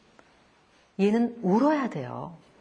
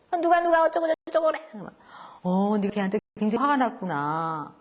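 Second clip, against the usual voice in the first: gentle parent; 5 semitones lower than usual. Retold or imitated. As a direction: calmly draw out the child's story. Parent soothing upset child.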